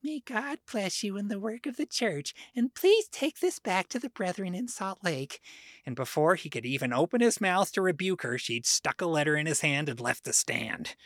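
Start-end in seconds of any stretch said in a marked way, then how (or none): 0.0-5.4 sweetly voiced, higher-pitched blessing; mild, polite sweetness with a lifted pitch; Vonda May. A narrator's reading. Churchwoman handing a message to a general authority, very sweetly. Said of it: "Vonda May said very sweetly".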